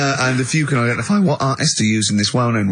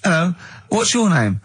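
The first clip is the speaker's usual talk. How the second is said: comic neighbour voice; 6 semitones higher than usual. Acted. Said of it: "You'd bring back Holy Fook".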